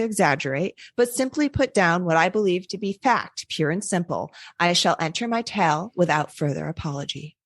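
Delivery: put-on steady read-aloud of an old manuscript; story narration.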